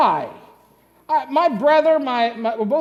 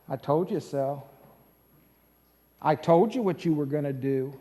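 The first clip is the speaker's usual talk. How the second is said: mock reproach; 8 semitones lower, 5 dB quieter than usual. Imagined reproach Jesus didn't make.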